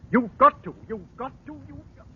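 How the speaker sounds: insistent. Acted. Constable pressed, voice rising.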